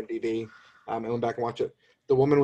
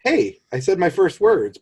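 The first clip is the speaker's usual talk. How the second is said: much higher, louder, slow and wide-eyed; snowman's first words; 6 semitones higher, 5 dB louder, slower than usual. Retold or imitated. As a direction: chirp it like a just-born snowman. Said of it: "when he says".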